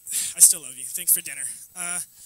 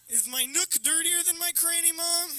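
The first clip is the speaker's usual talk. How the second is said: mock questioning; 9 semitones higher than usual. Child questions mom in acted retort.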